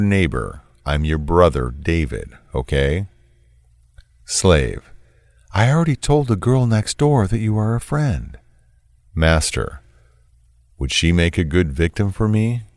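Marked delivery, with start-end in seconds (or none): 5.5-8.4 reads the slave's text in a higher, meeker voice; a higher voice for the slave's messages; a timid, deferential texter, lightly voiced; lightly voiced submissive texter.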